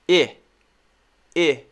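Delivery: i with jaw forward, sound from the back; short i from the throat. Shown as a demonstration. Teacher demonstrating jaw forward for short i. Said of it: "Like this".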